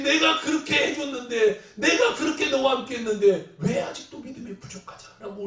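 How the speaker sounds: Jesus scolding weak faith, building to a shout; Jesus rebuking. Acted. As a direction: plead and scold like a hurt Lord. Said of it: "우리를 보시면서 우실 때가".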